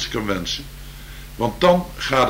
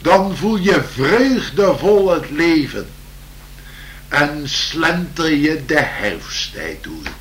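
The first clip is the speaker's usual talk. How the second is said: slow, lilting poem reading; poem recital; slower than usual. Acted.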